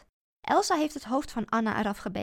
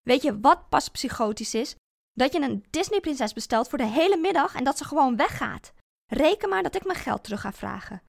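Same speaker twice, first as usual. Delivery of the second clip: loud, building angry tirade; furious rant; 4 semitones higher, 8 dB louder than usual. Acted. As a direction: tear into him, louder and louder. Woedende tirade tegen ex-man. (steeds luidere woedende uitval)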